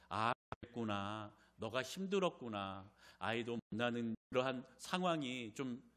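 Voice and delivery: husband gently comforting his hurting wife; gentle comfort. Pretend. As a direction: soothe her like a caring husband.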